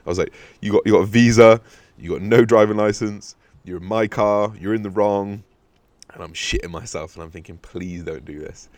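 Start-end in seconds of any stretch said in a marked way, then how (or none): 0.6-5.4 louder, worked-up retort; heated argument. Retold or imitated. Friend arguing with the driver over the licence, heated. 7.6-8.7 soft, slow pleading; quiet plea. Retold or imitated. Hiding upstairs and begging his friend to stop, quietly.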